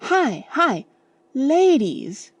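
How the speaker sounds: high, loud urgent call; warning yell. A narrator's reading. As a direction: shout a warning ahead. Warning shout to the boys.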